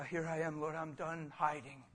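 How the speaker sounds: soft, surrendering prayer; hushed confession to the Lord; quiet prayer. Shown as a demonstration. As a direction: pray it softly, alone before God. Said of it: "Just let it be".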